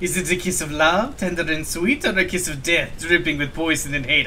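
put-on amateur French accent for a mysterious character; bad French accent. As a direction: attempt a theatrical French accent. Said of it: "suffer through this French accent".

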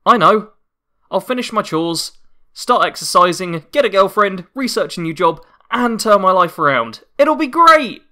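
forced optimism, rising to a squeal; bad acting. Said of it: "my terrible voice acting".

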